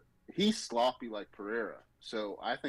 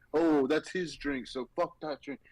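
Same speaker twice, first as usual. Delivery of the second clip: mocking quote; 4 semitones higher than usual. Mocking fighter's pettiness.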